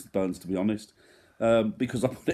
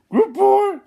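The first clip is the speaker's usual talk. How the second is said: shouted goodbye; 11 dB louder than usual. Real, not acted. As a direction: shout it out happily.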